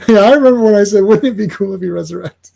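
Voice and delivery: hammed-up comic-book huckster reminiscing; Stan Lee. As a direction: play the self-crediting pitchman, high and loud. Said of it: "Stan Lee, I present Resurrection".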